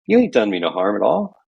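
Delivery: lightly voiced country accent; mock country accent. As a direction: drop into the friend's country accent. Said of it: "what part of the country he's from, from my accent".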